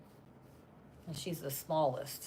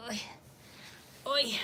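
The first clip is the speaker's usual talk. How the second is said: usual speaking voice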